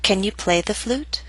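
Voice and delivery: "Can you play the flute?" rising at the end; rising intonation. Shown as a demonstration. Teacher models for listen and repeat, rising intonation. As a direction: lift the pitch on "flute?". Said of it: "yes-no questions use rising intonation".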